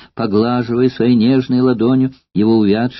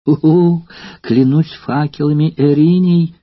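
exclaiming; 5 semitones higher, 3 dB louder, slower than usual. Acted. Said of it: "вскричала молодая женщина".

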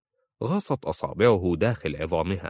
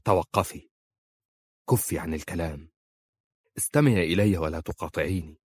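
firm resolve; 2 semitones lower than usual. A narrator's reading. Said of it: "وقال في حسم".

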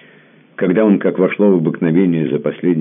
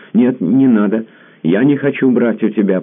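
high, louder refusal; protesting; 9 semitones higher, 5 dB louder than usual. A narrator's reading. Tamara protesting his offer of money, higher coy refusal. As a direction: protest with a pleading lift. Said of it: "протестовала она".

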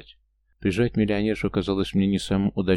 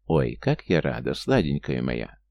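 lower, slow syrupy gushing aunt; sugary aunt; 7 semitones lower, slower than usual. A narrator's reading. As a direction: drip honey over your dear niece, slowly. Aunt gushes over her niece.

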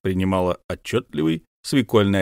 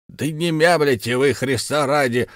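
exclaiming; 5 semitones higher than usual. Acted. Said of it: "воскликнул Беккер".

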